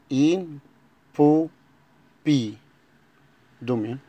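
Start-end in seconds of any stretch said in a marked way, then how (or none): 0.1-1.5 impopi stretched out very slowly; slow repeat. Shown as a demonstration. Teacher repeats the word slowly for pupils. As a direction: drag impopi syllable by syllable.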